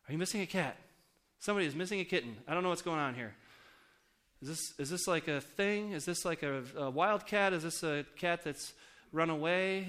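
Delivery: mock worry, asking neighbor after neighbor; mildly frantic questioning. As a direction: act out puzzled, slightly panicked questions. Acting his frantic door-to-door questioning.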